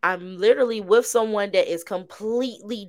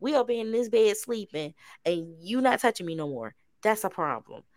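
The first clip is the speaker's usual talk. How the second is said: whiny complaint; 3 semitones lower, 5 dB quieter than usual. Retold or imitated. Whining to partner in bed.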